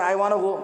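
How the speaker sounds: "I wanna go" with want to run together as "wanna"; American slang-style "wanna". Shown as a demonstration. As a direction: say "wanna" as one casual slang word. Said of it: "slang language में".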